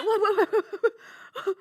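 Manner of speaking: stunned by the vanished dog; laughing disbelief. Real, not acted. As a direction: laugh it off in shock. Shocked reaction, laughing.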